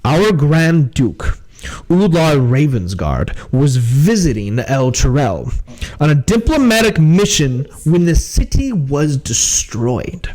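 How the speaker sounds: lightly voiced officer, measured and deliberate; grave captain. Captain confides the Duke's fate to party, grave. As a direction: confide grave news in character.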